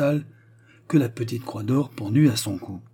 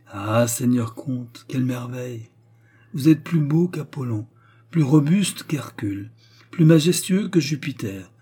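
gushing courtier praise, a bit higher; fawning flattery; 3 semitones higher than usual. Acted. Flatterers fawning over the count, gushing.

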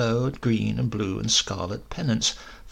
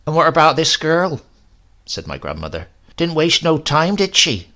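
put-on high, loud prying old woman; prying grandmother; 4 semitones higher, 6 dB louder than usual. A narrator's reading. Grandmother quizzes Silas about the bride, high and loud. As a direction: press him about the girl.

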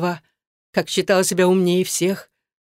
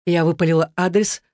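plain reading voice

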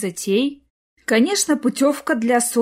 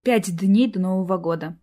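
ordinary delivery

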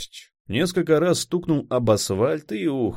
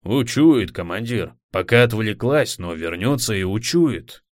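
jittery, anxious warning; nervous; 3 dB louder than usual. Acted. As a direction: fret that it will smell them. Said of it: "занервничал Шест".

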